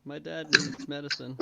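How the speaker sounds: slow, mildly whiny plea; lightly acted, drawn-out whine; whining. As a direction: plead like a whimpering pet. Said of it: "whine up to it and say".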